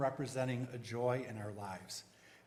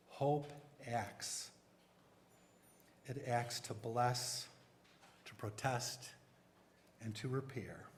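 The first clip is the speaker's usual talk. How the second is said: poem reading. Acted. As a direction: read it like a hymn. Reads the poem Hope Rises.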